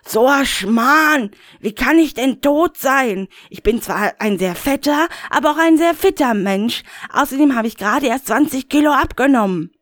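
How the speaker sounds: high, indignant Rainer voice; a high, put-out grumble; Rainer, high and agitated. Acted. Rainer brushes off the caller, high and huffy.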